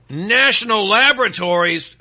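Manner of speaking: emphatic announcer read; broadcast voice. Shown as a demonstration. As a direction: sound out each word like a broadcaster. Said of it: "I'll read in my broadcast voice".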